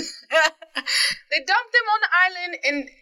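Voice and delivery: slow, laughing British accent attempt. Co-host practising from a TV show, laughing British accent. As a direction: keep the British accent going through a laugh. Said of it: "I was doing really good with that".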